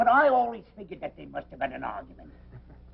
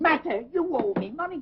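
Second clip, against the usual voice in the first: indignant outburst; 10 semitones higher than usual. Acted. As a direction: flare up over the unpaid debt. Publican rages about unpaid bill.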